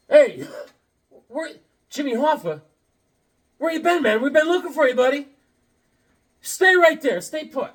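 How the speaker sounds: high-pitched call to a long-lost buddy; mock surprised calling. Calling to supposedly found Jimmy Hoffa.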